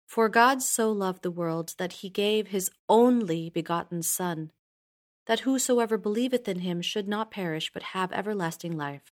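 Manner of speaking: only lifted and held longer; single out the word only; stress on only. Shown as a demonstration. Teacher showing there is one Son, stress on only. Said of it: "shows what happens when you emphasize different words".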